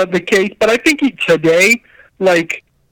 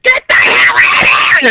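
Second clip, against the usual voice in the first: retold shout; 4 dB louder than usual. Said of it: "They're screaming".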